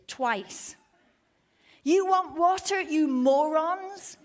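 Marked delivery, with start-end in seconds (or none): 1.8-4.2 furious, loud, much higher yell; high, loud Moses losing his temper; angry outburst. Retold or imitated. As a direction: bark it out at them, slow on morons. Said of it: "Moses is mad".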